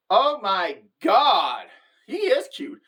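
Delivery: gushing. Retold or imitated. Gushing over photos of a guy.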